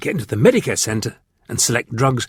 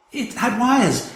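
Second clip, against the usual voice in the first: put-on higher, hesitant girl voice; unsure, feeling for words; 12 semitones higher, slower than usual. A narrator's reading. Frightened girl recalling for her captor, higher and hesitant. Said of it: "recalled Victoria hesitantly".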